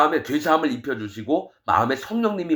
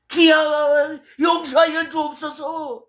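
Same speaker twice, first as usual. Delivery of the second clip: high, loud, drawn-out plea to the Lord; slow, mock-desperate shouted prayer; mocking wailing prayer; 12 semitones higher, 3 dB louder, slower than usual. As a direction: ham up a pastor crying out in repentance. Mocking pastor's tearful prayer.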